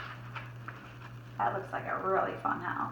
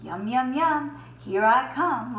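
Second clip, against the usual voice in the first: greedy wolf; 2 semitones higher, 3 dB louder than usual. Acted. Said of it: "laughed the wolf".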